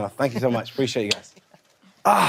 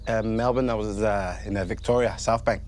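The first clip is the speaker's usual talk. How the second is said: put-on failed Australian accent; 6 semitones lower than usual. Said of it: "Can't do an Australian accent to save my life".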